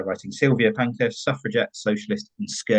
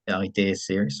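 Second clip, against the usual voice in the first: ideas with a slipped West Country accent. Real, not acted. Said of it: "Sorry, my West Country accent came out there".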